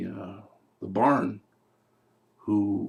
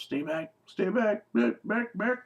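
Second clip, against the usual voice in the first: rising higher with each back, more and more panicked; panicked pleading; 9 semitones higher, slower than usual. Retold or imitated. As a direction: plead stay back, climbing in pitch. Man holds gun, kids approaching.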